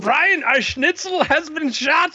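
very high, slow, urgent character voice; alarmed Adolf. Acted. Adolf system answers Brian about injury, alarmed. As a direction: cry out in high-pitched alarm.

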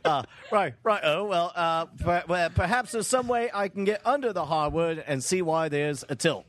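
lightly hammed British workman; a bit of bad British accent; put-on British tradesman patter; fake British accent. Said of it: "my terrible fake accent".

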